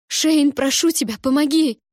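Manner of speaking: high, loud pleading cry; desperate plea. A narrator's reading. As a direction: beg him urgently for help.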